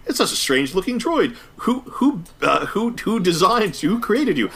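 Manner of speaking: imitating the droid. Droid quote mimicked, much higher.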